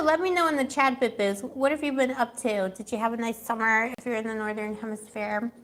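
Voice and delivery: ordinary talk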